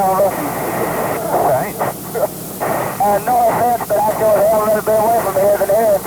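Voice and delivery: crackly military radio. Real, not acted. Pilot and ground camp on radio.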